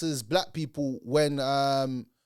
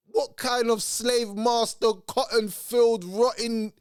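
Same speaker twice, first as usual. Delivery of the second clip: outraged; 5 semitones higher, slower than usual. Real, not acted. Outraged rant.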